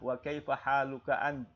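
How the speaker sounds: ant held and stopped, no final a; held final syllable. Shown as a demonstration. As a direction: hold ant without finishing the vowel. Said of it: "tapi ditahan". (ant ditahan, tidak dibaca anta)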